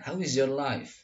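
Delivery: "How is your life" joined as one word; words run together. Shown as a demonstration. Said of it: "Nah, jadi disatukan".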